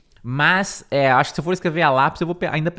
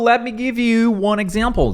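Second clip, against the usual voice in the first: reading aloud; 7 semitones higher, 3 dB louder than usual. Shown as a demonstration. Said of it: "vai começar dizendo".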